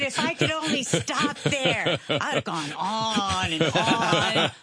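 laughing through the words, stretched out slow; can barely finish for laughing. Real, not acted. Host delighted by the guest's story, laughing.

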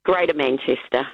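broad Manchester accent, lightly put on. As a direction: say it like a born Mancunian, a hint of Manchester. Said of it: "how quickly you can switch between it".

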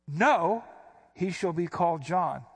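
abrupt no. Shown as a demonstration. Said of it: "why do I keep inflecting like that".

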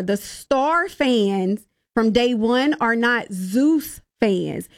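slow, spaced-out words for emphasis. Shown as a demonstration. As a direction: spell it out slowly, pausing between phrases. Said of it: "I'm gonna say that a little bit slower".

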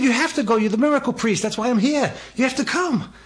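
won't take no for an answer; insistent pleading. Retold or imitated. Insisting the priest must come.

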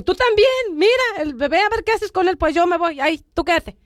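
to her husband, a huffy angry retort. Retold or imitated. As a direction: throw the baby duty back at him. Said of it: "me fui enojada".

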